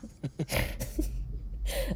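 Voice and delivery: soft, airless giggle; breathy giggle. Real, not acted. Imagining the clerk telling friends, soft breathy giggle. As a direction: giggle quietly under your breath.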